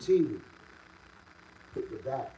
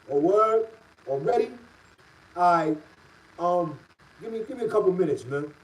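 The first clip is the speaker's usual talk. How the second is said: mock surprise; 3 semitones higher, 5 dB louder than usual. Retelling Wallace's surprised reply.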